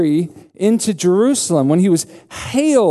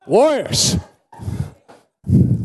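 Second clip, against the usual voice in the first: cheering like a crazy fan; wild unhinged ranting; 7 semitones higher, slower than usual. Acted. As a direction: whoop it up like a sports fan. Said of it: "acting like a crazy person".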